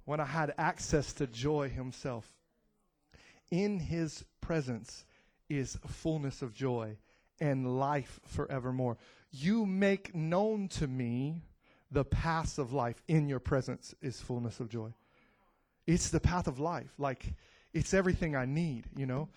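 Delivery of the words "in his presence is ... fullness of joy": softer, slow, lower reading; quiet devotional recitation; reverent scripture. Real, not acted. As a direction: let the verse settle gently. Quotes scripture softly.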